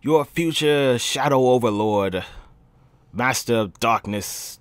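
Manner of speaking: loud, slow grandiose overlord voice; megalomaniac rant. Acted. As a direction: announce yourself like a self-declared god. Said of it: "self-introduction as overlord character".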